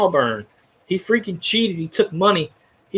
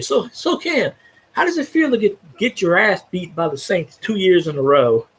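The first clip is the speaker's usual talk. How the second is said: mock question to a beaten rival; taunting. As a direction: rub it in his face. Taunting Cam Newton directly.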